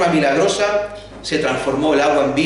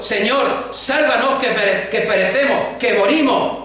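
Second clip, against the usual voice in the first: desperate cry for help; 4 semitones higher than usual. Retold or imitated. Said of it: "gritando y llamando".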